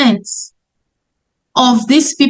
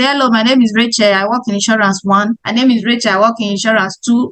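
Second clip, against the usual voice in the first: fast, lower rattled-off pitch; careless pitch; 3 semitones lower, faster than usual. Shown as a demonstration. Saleswoman rattling off a pitch to strangers, fast and lower. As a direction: reel it off to random strangers, quickly. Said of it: "don't just meet somebody randomly".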